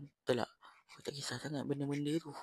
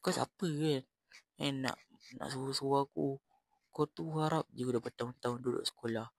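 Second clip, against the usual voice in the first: retold anger. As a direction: tell him off, voice raised. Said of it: "aku marah dia".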